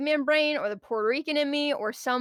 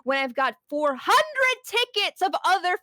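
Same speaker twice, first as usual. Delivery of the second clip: rude customer voice; 4 semitones higher, slower than usual. Retold or imitated. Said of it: "breathing down your throat going".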